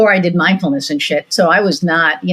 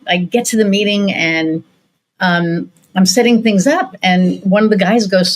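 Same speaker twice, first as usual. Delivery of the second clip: usual speaking voice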